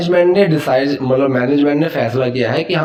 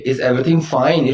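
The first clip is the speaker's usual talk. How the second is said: each word spelled out slowly; unhurried teacher model; slow dictation; slower than usual. Shown as a demonstration. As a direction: say it slowly and clearly for learners. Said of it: "So is everything okay?".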